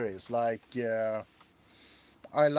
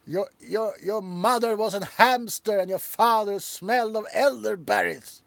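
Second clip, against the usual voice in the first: loud, higher put-on taunting voice; mock taunting Frenchman; 6 semitones higher, 5 dB louder than usual. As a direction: hurl a silly insult in a funny voice. Quoting Monty Python taunt.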